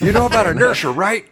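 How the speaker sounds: put-on squeaky complaining kid voice; high whiny voice. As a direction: whine it high and nasal. Mock whiny trampoline complaint.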